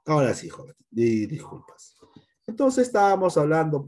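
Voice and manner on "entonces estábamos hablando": whisper. Real, not acted. Teacher suddenly whispers.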